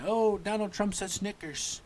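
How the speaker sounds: high, sneering gossip voice; mocking critics. Trump mocking critics who twist his words, sneering. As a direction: mimic a tattling critic. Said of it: "they could be".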